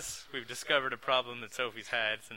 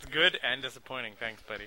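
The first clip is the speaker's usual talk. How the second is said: normal talking voice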